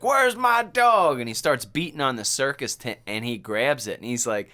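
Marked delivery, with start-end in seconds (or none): 0.0-1.2 high, slow, louder call for the dog; mock frantic farmer yell; worried farmer calling. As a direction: call out like a panicked old farmer.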